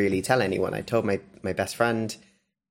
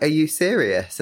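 disbelieving fiancée; 7 semitones higher, 5 dB louder than usual. Retold or imitated. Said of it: "she's like".

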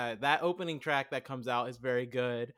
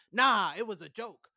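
dismissive mock actor; 6 semitones higher, 4 dB louder than usual. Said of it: "he goes".

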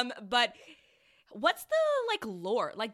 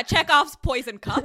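laughing; 5 semitones higher, 12 dB louder, slower than usual. Real, not acted. Repeating the phrase, laughing.

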